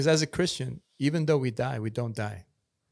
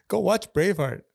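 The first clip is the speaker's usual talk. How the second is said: excited urging; 6 semitones higher, 6 dB louder than usual. Real, not acted. Urging, laughing, to watch film.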